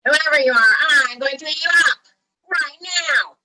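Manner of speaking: full-force storybook troll bellow; troll's roar. A narrator's reading. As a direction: roar at the goat like a hungry troll. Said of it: "roared the troll".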